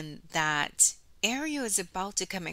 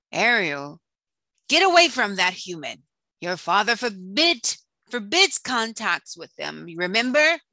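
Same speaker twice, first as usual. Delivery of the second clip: a lightly voiced fussy crab, louder and scolding; scolding crab advisor; 5 dB louder than usual. Crab advisor scolding the princess about the human, mild fussy scold. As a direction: warn her off sharply but only lightly voiced.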